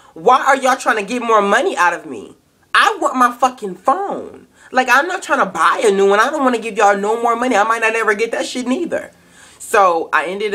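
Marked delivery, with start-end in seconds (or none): 0.1-9.1 higher-pitched, exasperated retort; indignant protest. Retold or imitated. Customer retelling her protest to sales rep, indignant. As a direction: push back, pitched up and fed up.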